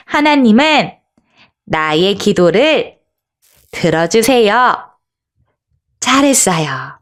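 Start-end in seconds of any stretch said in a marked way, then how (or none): 0.1-4.7 measured call in short separate phrases; lead-along call-out. Shown as a demonstration. Teacher asks children to follow her, phrase-by-phrase call-out. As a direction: pause after each phrase for the echo. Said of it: "우리 함께 외쳐보겠어요".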